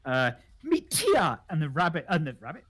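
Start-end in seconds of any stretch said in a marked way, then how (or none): 0.6-1.4 loud, drawn-out presentation; slow, loud and eager; excited introduction. Acted. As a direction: present your pet with a big flourish. Introduces toad by name.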